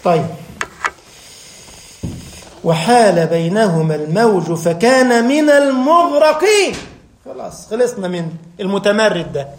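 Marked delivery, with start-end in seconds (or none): 2.6-6.7 slow, fuller Quranic recitation at normal pitch; unhurried solemn chant with a fall at المغرقين. Acted. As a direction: recite the verse in full, slowly. Recites verse again, fuller.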